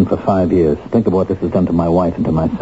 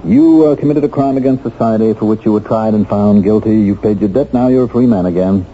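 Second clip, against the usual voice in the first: mock warden speech; 3 semitones higher than usual. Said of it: "listen to his little speech".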